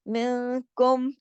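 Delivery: मिनकुम slow with कुम said plainly, no nasal hum; slow Quranic reading of मिनकुम; clear म. Shown as a demonstration. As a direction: recite मिनकुम slowly, clean final म. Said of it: "कोई गुन्ना वगैरह नहीं किया".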